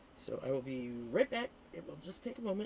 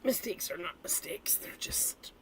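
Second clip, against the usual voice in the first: whisper; 3 semitones higher than usual. Real, not acted. Whispered aside about magic.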